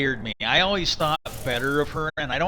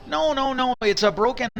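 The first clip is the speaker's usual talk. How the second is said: perked right up; 9 semitones higher than usual. Retold or imitated. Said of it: "all of a sudden she perked right up".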